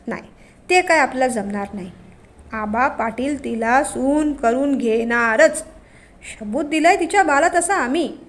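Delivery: a hint of a sly, bossy village headman; village patil. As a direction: patil talking over his son, lightly voiced. Aaba the village patil voiced.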